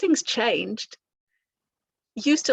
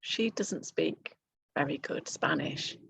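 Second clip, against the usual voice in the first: mild imagined listener thought; 4 semitones lower, 5 dB quieter than usual. Retold or imitated. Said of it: "You're going to think".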